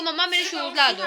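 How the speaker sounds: gentle, unhurried, with a small laugh; calm request. Shown as a demonstration. Mother showing the child how to ask calmly for shoes, gently. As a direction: ask nicely, no yelling. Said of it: "पहले आराम से बोलो कि".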